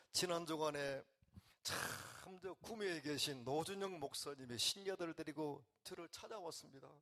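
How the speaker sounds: a believer reporting to God in prayer, lightly voiced; grateful prayer. Shown as a demonstration. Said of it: "보고해요".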